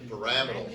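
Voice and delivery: "Pyramidal" as puh-RAM-ih-dul, stress on RAM; fancy pronunciation. Shown as a demonstration. Teacher repeating the educated version for class, "Pyramidal" as puh-RAM-ih-dul. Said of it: "sound really fancy".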